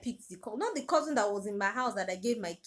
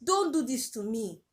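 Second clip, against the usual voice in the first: tearful pleading; 4 semitones higher than usual. Retold or imitated. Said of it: "I was crying so badly".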